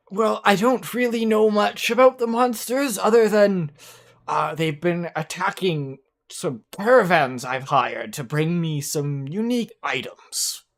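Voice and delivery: put-on old man voice. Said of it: "like, an old man voice".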